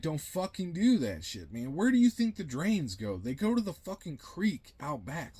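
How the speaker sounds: half-acted snap at a coworker; lightly hammed-up rant at someone dumping coolant; retold telling-off. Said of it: "being like".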